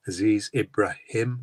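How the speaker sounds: Ibrahim ending in "him", not "ham"; name pronounced correctly. Shown as a demonstration. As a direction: say Ibrahim carefully, finishing on "him". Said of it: "There's no Ham in my name".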